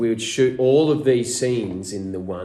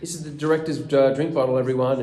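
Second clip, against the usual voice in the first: higher, showing off the find; mock discovery; 4 semitones higher than usual. Actor finding a prop left on set, mock announcement. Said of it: "and you go".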